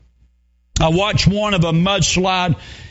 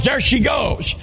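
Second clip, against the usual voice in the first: higher, shouted spotting call; a neighbor yelling as she floats away; retold yell; 5 semitones higher, slower than usual. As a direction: point and yell it out. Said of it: "somebody yells".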